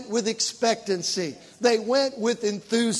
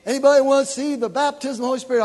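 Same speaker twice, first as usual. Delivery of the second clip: lightly imitated caller, rapid and louder; altar call; 4 semitones higher, 5 dB louder, much faster than usual. Church calling for anyone wanting baptism, imitated rapid altar call. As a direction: toss out a fast, raised invitation.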